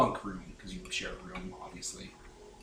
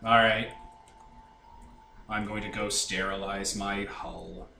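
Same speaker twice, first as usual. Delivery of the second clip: monotone Fives; 4 semitones lower than usual. Acted. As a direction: announce it evenly, without any feeling. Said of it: "out of my way to make him monotone".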